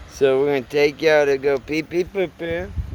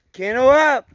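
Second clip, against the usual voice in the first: firm command; 10 semitones higher, 9 dB louder than usual. Real, not acted. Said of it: "be more aggressive".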